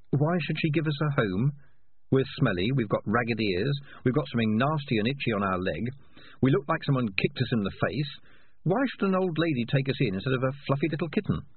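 a gently mocking conscience. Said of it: "said his conscience".

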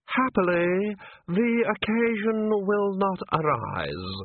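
slow, dust-dry voice; lightly voiced dry dead voice. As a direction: speak as a dead thing from the shadows. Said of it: "It was dust dry".

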